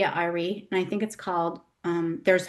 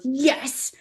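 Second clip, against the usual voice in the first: put-on mad toddler; 5 semitones higher than usual.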